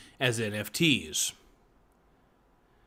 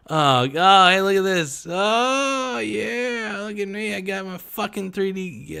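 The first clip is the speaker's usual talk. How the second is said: higher, showy mock brag; bragging NFT owner; 8 semitones higher, 4 dB louder, slower than usual. Mocking an NFT owner showing off his 3D ape, high mock brag. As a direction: show off like a smug collector.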